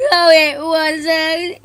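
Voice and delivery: slow, loud, crying protest; sobbing. Acted. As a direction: wail it through tears. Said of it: "he sobbed".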